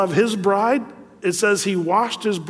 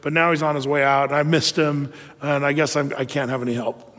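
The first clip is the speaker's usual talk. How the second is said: resigned rationalizing; 3 semitones lower than usual. Retold or imitated. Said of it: "rationalized and said".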